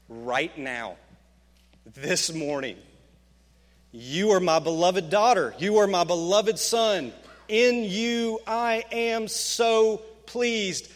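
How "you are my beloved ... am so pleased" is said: preacher voicing God's declaration over you; fervent proclamation. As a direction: proclaim it, stretching the final phrase slowly.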